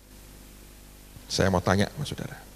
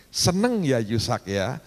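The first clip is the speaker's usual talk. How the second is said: gentle warning; slower than usual. Retold or imitated. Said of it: "terus Tuhan ngomong gini".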